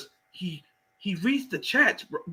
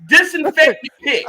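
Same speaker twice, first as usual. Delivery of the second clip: loud, laughing command; laughing order; 6 semitones higher, 8 dB louder than usual. Acted.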